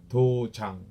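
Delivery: dojang with a firm falling jang; stress on jang. Shown as a demonstration. Instructor teaching students the word, stress on the ending. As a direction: lean on the jang at the end of dojang. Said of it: "jang, at the end".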